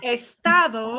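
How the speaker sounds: Estado said clearly as es-ta-do; dictionary pronunciation. Shown as a demonstration. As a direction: pronounce Estado crisply, each syllable. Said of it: "split it into two".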